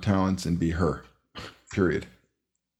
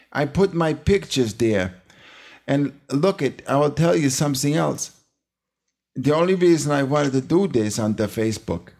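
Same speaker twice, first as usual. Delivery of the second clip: put-on old Jewish accent; 5 semitones higher than usual. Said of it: "with the old Jewish accent".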